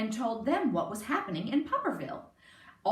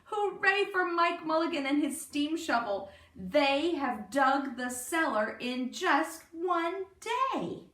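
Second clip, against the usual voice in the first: higher, louder cheer; 6 semitones higher, 3 dB louder than usual. A narrator's reading. Crowd praising Mike Mulligan, excited cheer. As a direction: celebrate with the crowd. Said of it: "shouted the people".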